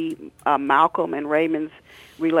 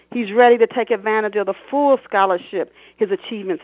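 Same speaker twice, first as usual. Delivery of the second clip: principal's speech; 6 semitones higher, 6 dB louder than usual. Acted.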